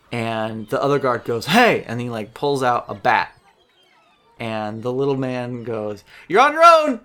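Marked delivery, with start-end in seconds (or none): 1.5-1.8 loud, high shout of alarm; sudden loud "Hey!"; guard shouting. Acted. 6.3-7.0 very high, loud squeal; cowardly little man shrieking; panicked squeal. Acted. Small man flees.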